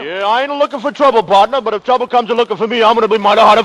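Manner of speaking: a hint of a western tough guy; swagger it like a gunslinger; lightly voiced cowboy. Cowboy bragging in saloon town.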